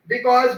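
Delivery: BECAUSE with both syllables given full vowels; full-form because. Shown as a demonstration. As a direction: say "because" fully, unreduced. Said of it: "लोग because नहीं बोलते".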